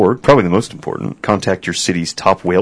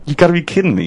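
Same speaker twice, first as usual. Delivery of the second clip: mock disbelief, pitched much higher; exasperated, high, disbelieving; 11 semitones higher, faster than usual. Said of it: "So it's like".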